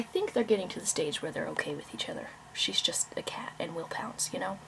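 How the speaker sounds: hushed whisper so the cats won't hear. Real, not acted. To the viewers about her cats, a soft whisper.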